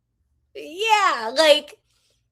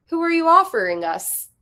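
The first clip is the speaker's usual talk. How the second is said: put-on a light British accent, a touch higher and louder; 5 semitones higher, 5 dB louder than usual. A British team GM asking which player is on offer. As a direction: play a British general manager making a trade offer. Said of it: "I made the G M of a random team British".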